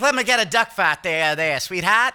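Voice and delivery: hammed-up 1940s dandy ordering; zoot suit guy impression. Friend mocks Ryan's zoot-suit phase as a dandy, hammed up. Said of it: "He's like".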